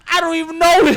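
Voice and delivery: high, loud, half-laughing denial; retold protest. Retold protest of the knocked-down kid.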